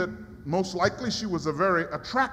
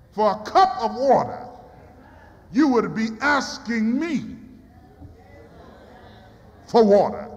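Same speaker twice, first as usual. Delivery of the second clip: Jesus building to a call; 3 dB louder than usual. Acted. Preacher voices Jesus, building.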